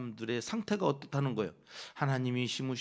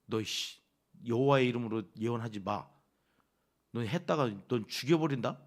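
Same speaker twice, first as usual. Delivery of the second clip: mock threat; 4 semitones lower than usual. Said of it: "뭐 이러는 거예요".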